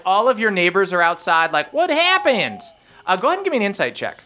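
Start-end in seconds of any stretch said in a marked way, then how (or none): 1.7-2.6 high-pitched startled question; alarmed neighbour. Acted. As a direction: pipe up like a worried onlooker. Neighbours voiced coming outside.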